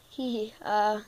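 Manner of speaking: halting fillers with nervous giggle; stuttering. Acted. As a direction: stall and stumble between words. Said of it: "Why are you stuttering?".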